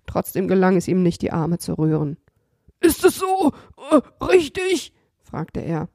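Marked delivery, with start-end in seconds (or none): 2.8-4.9 higher, timid robber voice; meek robber. Acted. Tied robber asks Kasperl if this is right, meek. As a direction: ask it meekly.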